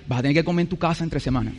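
a quick line broken up by laughter; mocking his own gloomy thought, laughing. Voicing an absurd thought.

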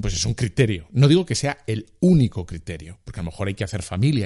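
ordinary talk

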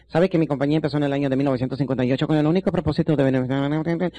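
droning, even pitch, no variation; monotone salesman. Retold or imitated. Boring salesman droning company history at a prospect, monotone. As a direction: imitate a dull salesman reciting like a prayer. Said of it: "Demasiado monótonos".

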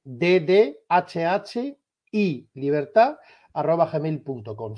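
letters drawn out and well separated; slow dictation. Shown as a demonstration. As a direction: repeat the address slowly for note-taking. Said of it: "lo voy a decir bastante despacio".

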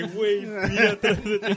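warning the driver about the man behind him, panicked; mock frantic warning. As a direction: shout it in a panic.

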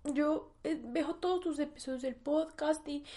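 imitating her mom. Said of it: "y me dijo".

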